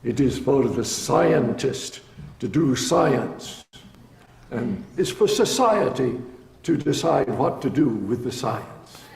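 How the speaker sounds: slow, heavy imitated German accent; thick German accent. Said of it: "in a thick German accent".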